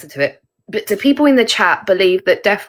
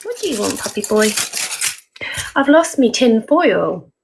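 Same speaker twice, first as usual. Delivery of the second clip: put-on teasing northern English accent. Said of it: "I put a northern accent on sometimes".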